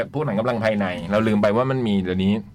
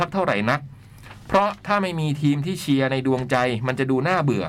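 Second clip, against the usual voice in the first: measured, articulated read-aloud; letter reading. Acted. Host reading a listener's letter on air, letter-reading voice. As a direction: read it out in phrases with pauses.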